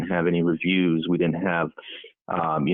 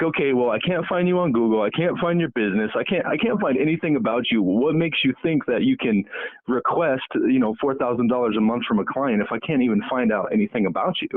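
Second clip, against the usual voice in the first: higher, exasperated mock lecture to a client; incredulous retold reply; 6 semitones higher than usual. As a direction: play the baffled expert grilling him. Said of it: "And I'm like".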